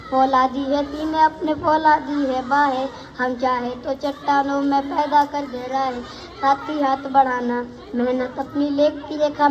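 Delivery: even, rhythmic school recital; verse recitation. Acted. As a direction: recite in steady metre with little pitch movement. Recites song verses as poem. (लयबद्ध कविता पाठ)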